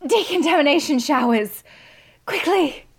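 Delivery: very high, loud command; urgent shouted order. Acted. Scientist ordering her rescuer to the showers, urgent shouting. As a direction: call out an emergency instruction. Julie urges escape from gas.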